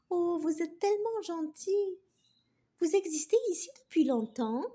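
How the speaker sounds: high, timid grateful voice; shy little glasses arm. Acted. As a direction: ask shyly, touched. Voix de la branche. (petite voix timide et touchée)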